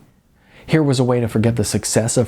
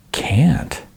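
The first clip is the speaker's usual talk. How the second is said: whisper; 5 semitones higher than usual. A narrator's reading. Larry whispers refusal.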